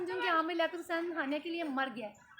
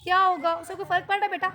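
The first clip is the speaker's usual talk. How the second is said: loud rallying; 6 dB louder than usual. Real, not acted. Rallying crying kids loudly.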